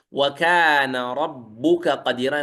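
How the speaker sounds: slow وكان ربك قديرا, the kaf of ربك fused into the qaf, rabbuqqadira; merged kaf into qaf. Shown as a demonstration. Teacher reciting the verse slowly to show the merge. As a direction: slowly let the k of ربك become a doubled q. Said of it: "وكذلك في قوله".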